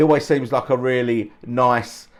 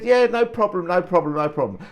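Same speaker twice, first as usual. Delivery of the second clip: mock Cockney; 7 semitones higher than usual. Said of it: "He doesn't even speak like that".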